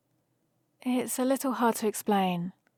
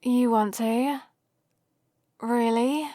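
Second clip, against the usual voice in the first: hopeful, louder questions with rising ends; pleasantly surprised; 4 dB louder, slower than usual. Acted. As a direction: ask in happy disbelief. Friend agrees to come along.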